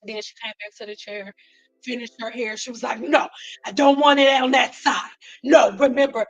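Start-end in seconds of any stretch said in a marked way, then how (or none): 3.0-6.2 louder, insistent client objecting; bossy mock correction, emphatic; retold yelling. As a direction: imitate a demanding, dissatisfied client. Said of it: "when she heard her yelling".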